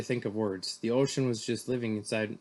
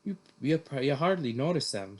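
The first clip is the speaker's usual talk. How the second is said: higher, lifted reassurance from a mom; trying to be cheerful; 4 semitones higher, 4 dB louder than usual. Acted. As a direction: put on some cheer for your kid. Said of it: "said Mom, trying to be cheerful".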